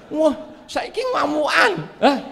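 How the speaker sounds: high, loud burst of mock rage; mock shout. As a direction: shout it like a wife finally fighting back. Wives' revenge, shouting. (teriakan pura-pura marah)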